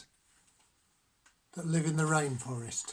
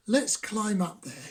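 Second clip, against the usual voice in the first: softer, calmer frog voice; 3 semitones higher than usual. Acted. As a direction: suggest it more quietly.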